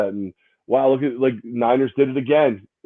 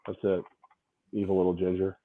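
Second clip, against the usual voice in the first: mock sulk; 5 semitones lower, 9 dB quieter than usual. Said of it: "My feelings are hurt".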